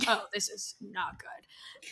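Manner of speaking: slow, soft, whispery alarm; hushed realization. Retold or imitated. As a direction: murmur it to yourself, retold. Retold private realization.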